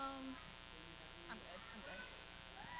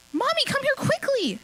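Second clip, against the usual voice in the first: put-on much higher, louder little girl's call; child yelling; 5 dB louder than usual. A narrator's reading. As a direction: call mommy urgently across the garden. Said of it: "yelled Ariel".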